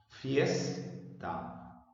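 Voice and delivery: "Fiesta" slowly split, weight on FIES; FIES... ta, showing the accent in "Fiesta"; stress on FIES. Shown as a demonstration. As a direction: lean on FIES, pause, drop ta in "Fiesta". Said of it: "La sílaba fies se pronuncia con mayor intensidad".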